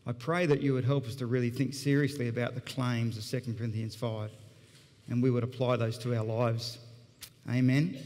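low, measured public prayer. Real, not acted. Prays aloud before the sermon.

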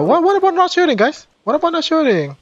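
high-pitched plea; high pleading. Real, not acted. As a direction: beg them not to shoot, high. Pleading not to shoot.

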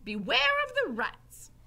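high, loud, slow parroting; Mig. A narrator's reading. Mig repeating Gregory's warning, high slow voice. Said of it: "said Mig".

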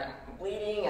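high mock-panicked kid; imitated freak-out. Hurt little girl tells daycare workers, mock panic. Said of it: "now the kid's freaking out".

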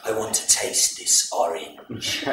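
low, slow, relishing villain with a laugh; lustful villain. Acted. Underworld king craving the queen, low slow leer. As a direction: savour each word like a leering underworld king.

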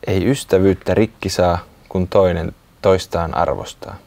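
recited poem. A narrator's reading. Closing rhyme of the story.

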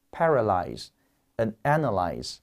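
paralyze and analyze spelled out slowly, syllable by syllable; drawn-out model reading of paralyze, analyze; slow pronunciation demo. Shown as a demonstration. Teacher slowly models the verb pronunciations for the class. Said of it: "所以动词读".

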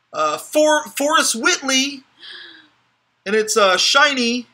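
high, loud squeaky mouse voice; mouse impression. Card breaker hyping a pull to viewers, squeaky mouse voice. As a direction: squeal it out like an excited cartoon mouse. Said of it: "that was my mouse impression".

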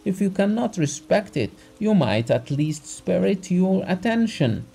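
the doctor's indignant outburst, loud and high; angry tirade. A narrator's reading. Doctor berates Abogin, beard quivering.

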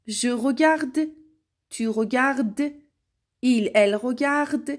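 "regarde" and "regardes" sounded identically, endings silent; careful model pronunciation. Shown as a demonstration. Teacher showing singular forms sound alike, careful model pronunciation. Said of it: "به تلفظ من دقت کنید".

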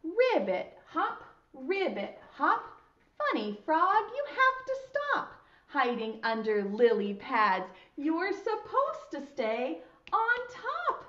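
put-on rhythmic children's rhyme with pauses; poem recitation. Shown as a demonstration. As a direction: lead the children through the poem. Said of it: "you say the poem with me".

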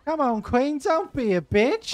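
shrieking high at the chess piece, drawn out; high shout. Real, not acted. Gamer yelling at a stubborn queen, high drawn-out shout. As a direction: yell up high and slow at the queen.

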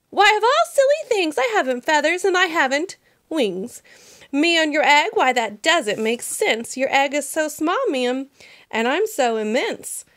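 lightly voiced chuckling elephant; mock amazed elephant; amused Horton.

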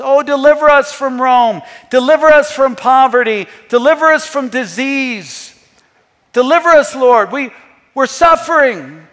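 acted appeal, pressed out phrase by phrase; crowd's plea. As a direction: plead aloud on behalf of the suffering. Acts out suffering crowd pleading.

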